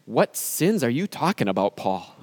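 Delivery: the Lord gently waves the sins away; gentle Lord's voice. Acted.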